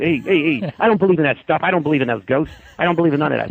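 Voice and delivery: lightly imitated tough-guy dismissal. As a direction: brush it off like a tough-guy neighbour. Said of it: "So that's how he is".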